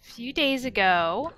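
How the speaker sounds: speaking with a sore throat; a scratchy sore throat voice. Real, not acted. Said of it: "I have a sore throat right now".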